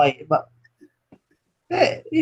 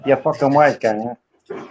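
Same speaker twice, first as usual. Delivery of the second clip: put-on New York mobster accent, lower; New York wise guy; 5 semitones lower than usual. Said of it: "New York voice".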